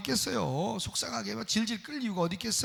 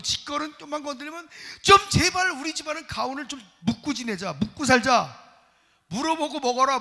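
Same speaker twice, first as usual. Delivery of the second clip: higher mock scolding of his son, ask first; scolding father; 4 semitones higher than usual. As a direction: nag him to ask before taking. Preacher voicing himself scolding son. (아들에게 묻고 쓰라고 잔소리하는 아버지)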